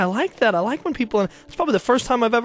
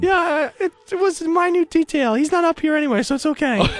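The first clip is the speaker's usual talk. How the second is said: saint voice; 6 semitones higher than usual. Acted. Playing saint Elizabeth Ann Seton.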